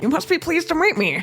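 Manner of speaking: put-on pinched nasal old gent, again; nasal Kinger voice. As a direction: squeeze it through the nose like Kinger. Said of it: "Oh, do that".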